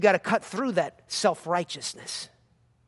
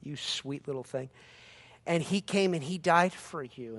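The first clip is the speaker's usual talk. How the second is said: softer, lower syrupy reassurance; mock-sweet preacher; 4 semitones lower, 4 dB quieter than usual. Mocking a soft feel-good sermon, sugary. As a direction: parody a gentle sweet preacher. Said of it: "he's not just saying".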